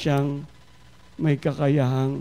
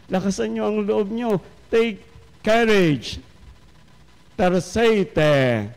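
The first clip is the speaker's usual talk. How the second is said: reassuring Jesus; 5 semitones higher, slower than usual. Acted. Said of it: "kanyang bungad sa kanila".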